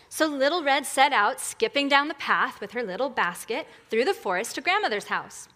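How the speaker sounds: storybook reading with lilting pitch; animated children's story narrator; fairy tale narration. Acted. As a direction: tell it like a bedtime story. Tells fairy tale to congregation.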